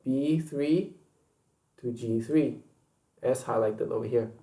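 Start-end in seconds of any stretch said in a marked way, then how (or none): 0.0-2.6 B THREE and G THREE drawn out as separate chunks; emphatic repeat. Shown as a demonstration. Teacher re-stressing a spreadsheet range for learners, emphatic repeat of B THREE to G THREE. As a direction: spell out "B three", pause, then "to G three" deliberately. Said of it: "Let me emphasize it again".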